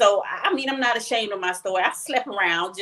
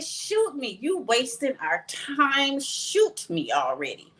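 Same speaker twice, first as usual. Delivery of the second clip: defiant dare; 5 semitones higher, slower than usual. Retold or imitated. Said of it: "I said".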